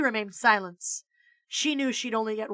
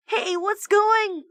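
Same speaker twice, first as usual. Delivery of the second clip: put-on kid voice; 11 semitones higher, 4 dB louder, slower than usual. Kid greeting teacher.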